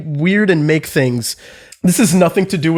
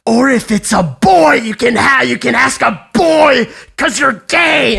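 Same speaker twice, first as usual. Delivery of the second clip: high stage whisper that is really a shout; super-loud pretend whisper; 6 semitones higher than usual. Teacher leans to a pupil's ear about the dance, super-loud pretend whisper. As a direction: imitate someone fake-confiding loudly for all to hear. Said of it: "did a pretend whisper in my ear, like, super loud".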